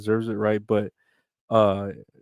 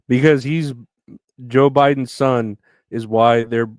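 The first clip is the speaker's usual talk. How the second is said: mock indignant Biden; 7 dB louder than usual. Mock Biden quote, louder.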